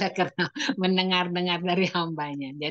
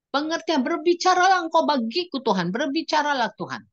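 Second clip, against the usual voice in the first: high, louder pleading cry; crying plea; 8 semitones higher, 4 dB louder than usual. Retold or imitated. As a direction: beg God to speak, weeping. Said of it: "Aku bilang". (seruan sambil menangis, tinggi)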